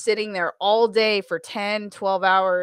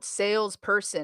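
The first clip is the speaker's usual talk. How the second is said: slow, soft, ironic salesperson voice.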